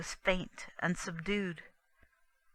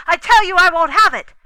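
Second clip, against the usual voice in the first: higher, much louder, fast furious yell; angry shout; 11 semitones higher, 19 dB louder, faster than usual. Acted. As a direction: bellow it at her from the dream. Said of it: "and to go shouting out".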